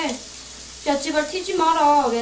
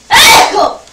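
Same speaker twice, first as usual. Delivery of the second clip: sudden loud sneeze, much louder and higher; explosive real sneeze; 8 semitones higher, 13 dB louder, slower than usual. Real, not acted. Cook sneezing over the pot, loud sudden sneeze. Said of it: "재채기해서".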